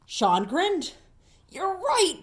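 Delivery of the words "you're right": cheerful agreement. Acted.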